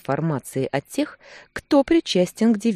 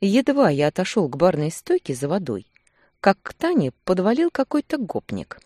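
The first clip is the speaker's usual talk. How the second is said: ordinary talk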